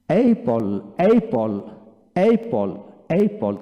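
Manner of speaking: "apple" said with an open 'a' as in cat, repeated; short-a pronunciation demo. Shown as a demonstration. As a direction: model "apple" word by word, falling tune, pauses between. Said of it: "এতে এ জফলা হয় যেমন".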